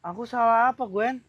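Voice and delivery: understated, patient question; mild bewilderment. Acted. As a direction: ask calmly what went wrong. First take, he is patient.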